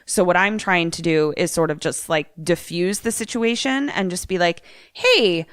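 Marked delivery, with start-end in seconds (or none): 4.9-5.4 pitched up, casually disarming question. Pretend. Player defusing an armed confrontation, disarming. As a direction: play it off lightly to disarm her. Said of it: "almost to disarm her".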